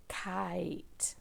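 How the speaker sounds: "Kite" whispered very softly; whispered word. Shown as a demonstration. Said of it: "If you hear long I".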